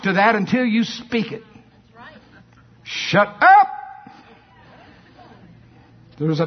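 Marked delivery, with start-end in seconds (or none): 2.8-3.7 loud command. Real, not acted. Preacher commands the devil's voice.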